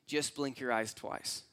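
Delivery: low, soft and unhurried; a hushed, calm suggestion; quiet calm stranger. Retold or imitated. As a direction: say it softly like a simple offer. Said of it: "And he goes".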